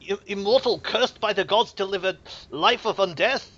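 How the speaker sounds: put-on grave old cleric intoning; templar priest voice. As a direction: speak as a solemn templar.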